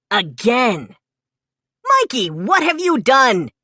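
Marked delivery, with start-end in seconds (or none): 1.8-3.5 angry big-brother yell at Mikey; a mild raised yell of dismay. A narrator's reading. Leo yells at Mikey over the wrecked room, mildly raised. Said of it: "yelled Leo".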